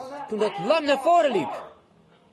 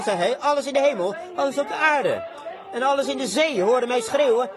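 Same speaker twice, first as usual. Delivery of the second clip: fervent preaching; 2 semitones higher than usual. Acted. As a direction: lift the verse up to the rafters. Acts out John's jubilant cry.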